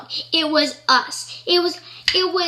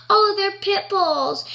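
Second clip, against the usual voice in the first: higher, drawn-out quoted answer; airy reply; 5 semitones higher, slower than usual. Retold or imitated. Answering a dog owner about her dogs, airy. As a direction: lift the pitch and stretch it lightly.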